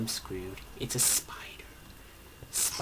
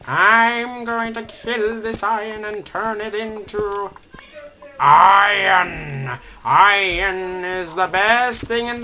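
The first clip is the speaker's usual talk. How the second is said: higher, louder, slow manic raving; going mad over iron; 7 semitones higher, 10 dB louder, slower than usual. Pretend. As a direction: rave about iron like a madman. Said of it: "Sorry, I'm going a bit mad now".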